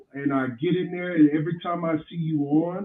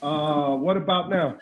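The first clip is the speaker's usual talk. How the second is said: muffled bass only. Real, not acted. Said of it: "It hasn't changed".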